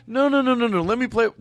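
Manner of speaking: mock the character refusing; hammed-up refusal.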